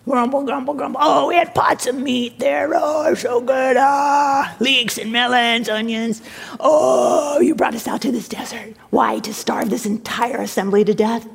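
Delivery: hammed-up moaning of a crowd; grumbling complaint. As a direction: whine and groan with longing. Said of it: "the whole community was grumbling".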